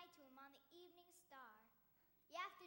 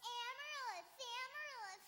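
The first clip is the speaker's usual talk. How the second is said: teasing; 7 semitones higher, 11 dB louder than usual. Acted. Taunting the boy with a lisp.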